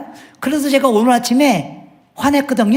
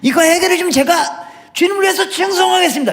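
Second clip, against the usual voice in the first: mock pleading prayer; 4 semitones higher than usual. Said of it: "이렇게 기도하고 왔거든요".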